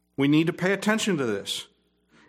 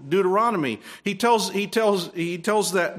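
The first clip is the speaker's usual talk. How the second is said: ordinary talk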